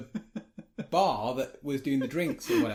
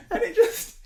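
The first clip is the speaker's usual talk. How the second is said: laughing while talking; 8 dB louder than usual. Real, not acted. Laughing while telling story.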